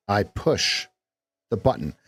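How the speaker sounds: pause, then the punched; stress on THE. Shown as a demonstration. Coach pauses before stressing the. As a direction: break after push, lean on the. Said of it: "we could put an emphasis on any syllable".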